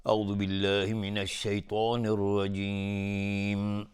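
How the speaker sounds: slow, measured recitation of the opening formula; Quranic recitation. Shown as a demonstration. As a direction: intone it slowly and reverently. Recited isti'adha before recitation.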